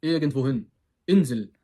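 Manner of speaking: irgendwohin ve Insel, baştaki i ı'ya kayar; INSEL'i i ile u arası bir sesle başlat; Almanca kısa i. Shown as a demonstration. (Almanca telaffuzlu Insel)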